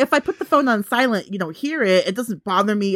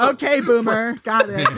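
laughing. Acted. Mocking retort, laughing.

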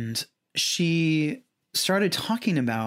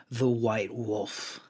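growling voice; much slower than usual. Retold or imitated. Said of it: "like, in this growling voice".

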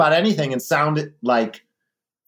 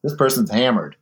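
offended stranger. Retold or imitated. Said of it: "people are like".

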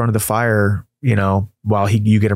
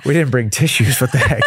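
teary laugh; half laughing, half crying; laughing through tears; 3 semitones higher than usual. Real, not acted. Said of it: "I'm crying over here".

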